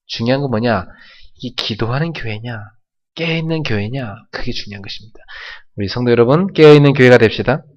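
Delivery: normal talking voice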